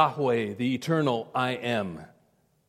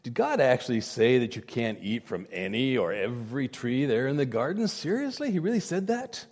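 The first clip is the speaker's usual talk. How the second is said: mock Satan; 3 semitones lower, 4 dB quieter than usual. Preacher voices Satan tempting Eve.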